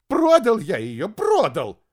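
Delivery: high, loud desperate squeal; desperate shriek. Acted. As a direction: shriek it in panic. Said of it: "он прокричал с каким-то отчаянием, сопровождая крик визгливыми нотками".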